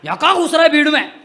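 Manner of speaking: put-on old man's loud scolding call over the crowd; mock yell from an elderly man in a crowd. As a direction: yell at him like a cross elderly uncle. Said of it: "वो जोर से मेरे को चिल्लाए".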